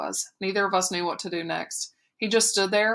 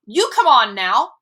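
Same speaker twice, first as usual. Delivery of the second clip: much louder, higher scream; screamed back; 4 semitones higher, 8 dB louder than usual. A narrator's reading. Boy screaming the coach's words back at him. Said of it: "I screamed".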